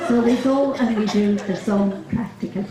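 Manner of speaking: put-on giggling through a Dublin accent; laughing. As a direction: barely hold it together in Dublin accent. Laughs through the sketch punchline.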